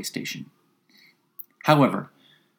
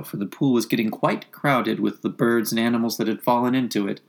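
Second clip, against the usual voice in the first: plain reading voice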